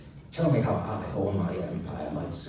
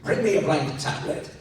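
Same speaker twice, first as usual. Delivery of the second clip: mild shout; 6 semitones higher, 5 dB louder than usual. Acted. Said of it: "clapped his hands and shouted".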